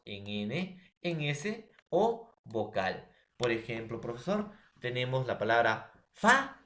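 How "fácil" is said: "fácil" as FÁ... CIL, long pause between; "fácil" split, first syllable high and loud; stress on first syllable. Shown as a demonstration. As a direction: punch FÁ loudly, then let CIL follow. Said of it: "penúltimo".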